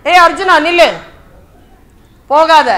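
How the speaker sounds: loud, high call to stop; acted urgent halt command. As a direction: shout after someone walking away. Krishna calls departing Arjuna back.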